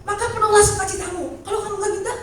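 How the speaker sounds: a hint of God's gentle urging; lifted voice quoting God, half laughing; voicing God. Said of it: "Tuhan bilang".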